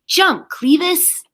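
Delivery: high, slow, pleading call; urgent drawn-out shout to the cat. Acted. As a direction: coax the cat to let go. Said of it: "Dex shouted".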